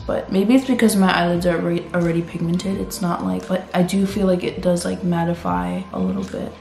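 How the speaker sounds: raspy sore-throat voice, like a heavy smoker; hoarse voice. Real, not acted. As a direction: talk through a real sore throat, hoarse. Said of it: "I'm recovering from a sore throat and I sound like I've smoked".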